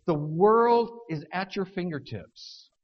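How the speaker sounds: mock commencement speaker pumping up graduates; motivational speaker. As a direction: graduation speaker psyching the crowd up, mock rousing. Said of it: "they tell the graduates".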